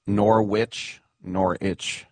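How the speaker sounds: Norwich said as nor-witch, then nor-itch; spelled-out pronunciation. Shown as a demonstration. Host showing how Norwich looks on paper, spelled-out pronunciation. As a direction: say Norwich syllable by syllable, as written. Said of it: "looks like".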